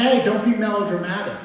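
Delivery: imitating mom. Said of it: "She's like".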